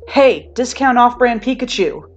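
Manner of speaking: slow, loud taunting call; mocking call. A narrator's reading. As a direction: yell the nickname out. Bakugo calls out mockingly.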